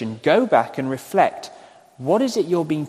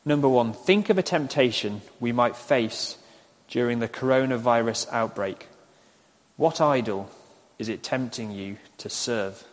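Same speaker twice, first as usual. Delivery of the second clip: deliberate repeat, broken into phrases; slow dictation. Real, not acted. Preacher repeating question for congregation to write down, slow dictation. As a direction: leave room for writing between phrases. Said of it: "I'll say them slowly".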